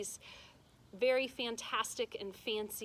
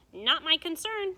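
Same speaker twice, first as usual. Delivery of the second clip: loud, higher curt witch; dismissive witch; 7 semitones higher, 9 dB louder than usual. A narrator's reading. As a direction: brush her off like a cold witch.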